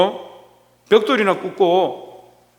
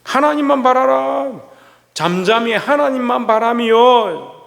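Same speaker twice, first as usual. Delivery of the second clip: slow proclamation; 4 semitones higher, slower than usual. Real, not acted. Preacher proclaiming scripture slowly.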